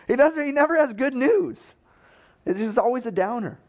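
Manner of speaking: very high-pitched mock whine; comic complaint. King complaining to Jehoshaphat about the prophet, comically whiny.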